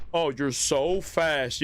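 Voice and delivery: mock admiration, stretched slow; slow sarcastic mock praise. Real, not acted. Mocking the fleeing enemy with slow sarcastic praise. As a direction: drag it out, dripping with sarcasm.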